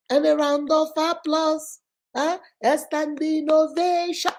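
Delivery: slow, stretched mock announcement; mock applause. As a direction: mockingly call for a standing ovation. Mock award ceremony for bad-mouthed viewer.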